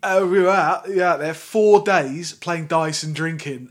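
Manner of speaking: loud laddish boast, dragged out; ordinary bloke's storytelling. Acted. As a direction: crow about a wild trip with mates. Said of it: "a normal way of telling a story".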